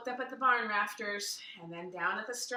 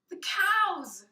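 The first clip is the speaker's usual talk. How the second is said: put-on anguished child; 9 semitones higher, 7 dB louder than usual. Luke mourning the cows.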